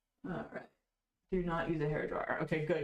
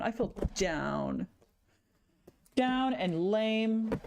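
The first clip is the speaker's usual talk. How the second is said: mopey slow lament; 2 semitones higher, much slower than usual. Real, not acted. Streamer mourning ruined sketches, slow mopey lament. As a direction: drag out "I feel down", slow and sinking.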